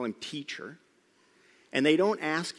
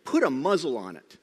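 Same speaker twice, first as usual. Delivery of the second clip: "Put a muzzle on it" said louder, firm and clipped; stern command; 6 dB louder than usual. Retold or imitated. Preacher repeating Jesus' rebuke of the wind, louder and firm. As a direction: hit "Put" hard like an order. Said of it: "Literally what it is".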